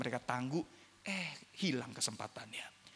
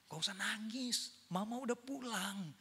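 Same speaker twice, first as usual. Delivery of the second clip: comforting mother; 7 semitones higher, 4 dB quieter than usual. Retold or imitated. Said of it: "mamanya menghibur".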